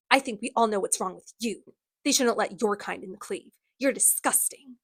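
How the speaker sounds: composed, understated sneer. Acted. Villain tells Alec he doesn't belong, mild controlled sneer. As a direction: keep the contempt controlled. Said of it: "he directed his next sneer at Alec".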